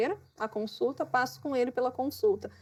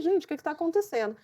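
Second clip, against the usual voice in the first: higher, fast alarmed question; 5 semitones higher, faster than usual. Retold or imitated. Retelling her fright as the storm rises, quick high alarm. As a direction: blurt it out, suddenly spooked.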